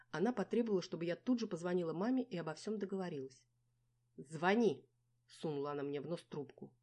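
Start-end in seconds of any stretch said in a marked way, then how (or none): 4.2-4.8 loud, sharp order; commanding order. A narrator's reading. Dinka to the heroine, loud commanding order. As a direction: bark the order at her. Friend demands she call.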